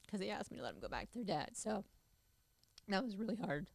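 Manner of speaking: tearful, barely holding it together; crying. Real, not acted. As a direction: voice breaking while crying. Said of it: "sorry I'm crying".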